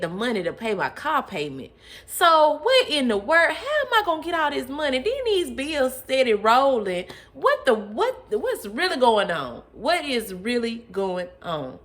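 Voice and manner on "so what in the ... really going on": high, loud, fast panic; rising frantic disbelief. Retold or imitated. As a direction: spiral into disbelief. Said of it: "reliving money panic".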